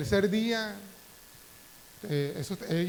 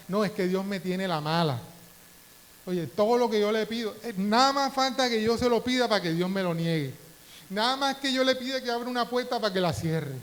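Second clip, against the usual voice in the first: mock complaint; 3 semitones higher, 4 dB louder than usual. Mock complaint of a frustrated believer.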